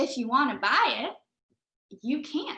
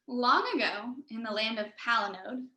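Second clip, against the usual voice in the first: story narration. A narrator's reading. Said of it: "reading posture".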